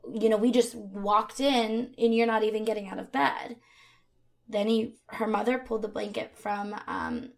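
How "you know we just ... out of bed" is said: mildly indignant, quick and raised; retold upset. Father to daughter who hasn't answered the door, mildly upset. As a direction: imitate an annoyed parent scolding. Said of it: "initially upset".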